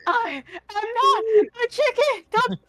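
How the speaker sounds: high, outraged shriek of a kidnapped hen; indignant chicken squawk. Retold or imitated. Kidnapped chicken shrieking at the party. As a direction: protest as a panicked chicken, high. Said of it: "I'm like".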